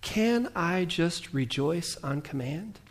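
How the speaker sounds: slow, soft, drawn-out question; weary doubt. Retold or imitated. Preacher voices his tired self, slow and soft. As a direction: let the reluctance drag it out. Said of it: "But some days I'm like".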